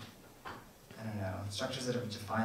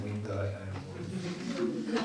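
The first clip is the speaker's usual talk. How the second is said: American pronunciation; much slower than usual. Shown as a demonstration. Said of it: "in America it's".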